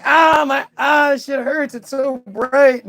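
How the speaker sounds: high mock wince at the bright light; a hammed-up cry of hurt eyes; hammed-up pain. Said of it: "They're not like".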